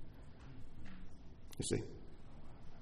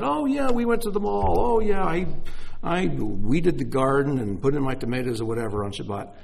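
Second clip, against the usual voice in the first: breezy friend; 3 semitones higher, 5 dB louder than usual. Retold or imitated. Voices a cheerful friend.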